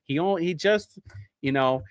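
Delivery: mock-praising the old governor as the greatest ever; sarcastic shilling. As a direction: praise him like a paid shill, tongue in cheek. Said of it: "who do I sound like right now?".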